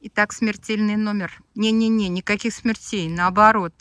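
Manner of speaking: loud showman announcing a stunt; booming circus ringmaster. Pretend. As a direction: boom it out like a ringmaster.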